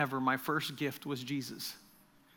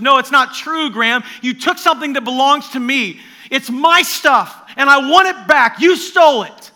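intense demand, not angry; 9 semitones higher, 18 dB louder than usual. Retold or imitated. Jesus to Graham in a dream, loud intense plea. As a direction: demand it back with love, not rage. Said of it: "Remember, not anger in the voice".

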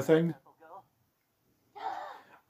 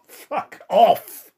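higher, louder incredulous shout; raging gamer; 7 semitones higher, 6 dB louder than usual. Real, not acted. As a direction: yell it in outraged disbelief. Repeats outburst louder.

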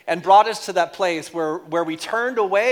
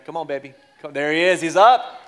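coaxing then cheering; 2 semitones lower, 4 dB louder, faster than usual. Real, not acted. Coaxing sheep up on video.

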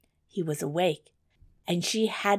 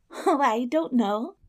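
put-on higher, modest girl; timid girl voice; 7 semitones higher, 3 dB louder than usual. A narrator's reading. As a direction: answer shyly as the girl. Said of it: "she said".

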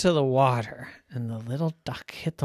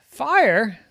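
loud, raised startled query; startled echo; 8 semitones higher, 8 dB louder than usual. A narrator's reading. Parents hear Ducky's alarm nearby, echoing it in surprise.

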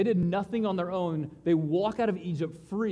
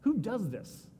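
awed wonder; 7 dB quieter than usual. Retold or imitated. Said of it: "he's like".

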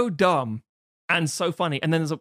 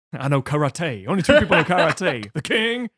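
rambling star; 3 semitones higher, 5 dB louder than usual. Retold or imitated. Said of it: "he keeps rambling".

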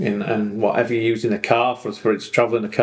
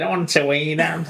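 higher-pitched pleading dog, put-on accent; dog's voice in accent; 5 semitones higher than usual. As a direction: imitate a dog asking Dad for the toilet. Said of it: "Did he say it in that accent".

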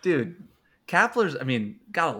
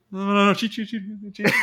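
mock sneaky signal; 8 semitones higher, 3 dB louder than usual. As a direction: slip the code word in furtively. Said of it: "trying to be sneaky about it".

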